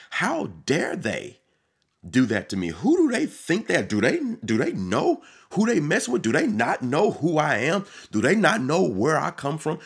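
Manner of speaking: a proud person fuming at a slight; indignant rant. Acted. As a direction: puff up, outraged at the insult. Acts out a proud offended person.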